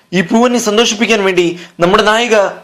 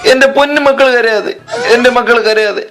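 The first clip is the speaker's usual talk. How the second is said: mock sobbing mother; 2 semitones higher than usual. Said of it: "ആ തള്ള പൊട്ടിക്കരഞ്ഞു".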